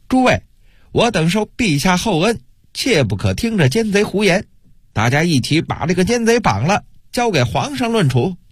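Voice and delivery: high-pitched impassioned call to the crowd; urgent appeal. A narrator's reading. Loyal official urging colleagues to seize traitor, urgent appeal. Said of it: "随后又大声疾呼".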